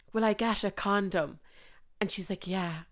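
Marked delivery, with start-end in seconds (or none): 0.1-1.4 lightly put-on Sligo accent, softer. Quoting the boy in the TV show, lightly put-on Sligo accent. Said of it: "trying to do the accent". 2.5-2.8 put-on quiet one-word reply in a Sligo accent. Quoting the girl's answer to him, soft Sligo accent. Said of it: "trying to do the accent".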